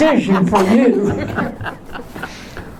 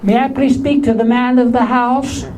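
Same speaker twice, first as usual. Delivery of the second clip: high voice; 4 semitones higher than usual. Retold or imitated. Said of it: "I'll say".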